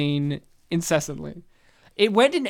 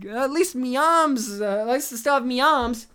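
character voice; 5 semitones higher, 4 dB louder than usual. Retold or imitated. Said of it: "they're like".

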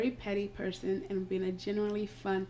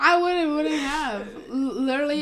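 loud protest; 6 semitones higher, 9 dB louder than usual. Real, not acted. Protesting friend's teasing quote.

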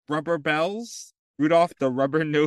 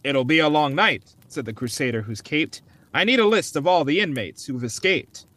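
story reading. Acted. Reads Christmas poem aloud.

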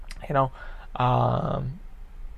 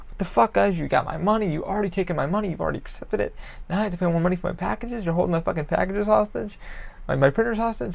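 higher, exasperated retold rant; upset rant; 5 semitones higher than usual. Customer retelling his complaint to the seller, exasperated and rising. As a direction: vent at them, pitch climbing. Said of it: "I kinda get upset".

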